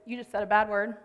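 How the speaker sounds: imitating a kid's offhand remark; nonchalant, casual. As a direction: toss it off casually, like an unbothered kid. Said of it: "nonchalant, casual, and he goes".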